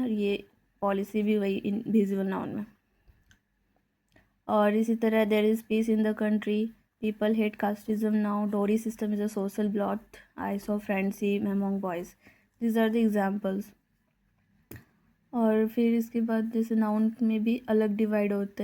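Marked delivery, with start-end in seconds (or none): 5.2-13.6 very slow, word by word; slow dictation. Acted. Teacher dictates a definition to the class, very slowly. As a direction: spell it out at writing speed.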